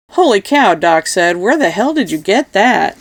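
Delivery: astonished, pitch leaping up; amazed exclamation. Acted. Amazed at the rare bottle.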